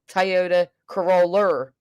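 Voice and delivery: slow "Coroller" with an R on the end; mom's pronunciation. Retold or imitated. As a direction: stretch out Coroller, ending in "-er". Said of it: "My mom calls the car Toyota Corolla, as in".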